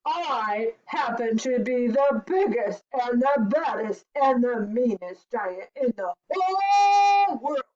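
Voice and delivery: emphatic boast, swelling at the end; giant's yell. Acted. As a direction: brag like a bullying giant. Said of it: "he yelled".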